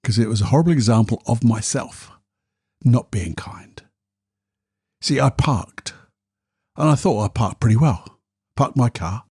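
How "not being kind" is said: slow whispered confession; a slow guilty whisper. Real, not acted. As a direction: whisper it slowly, ashamed. Confessing own unkindness.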